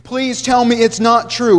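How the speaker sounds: pleading. A narrator's reading. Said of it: "I pleaded in disbelief".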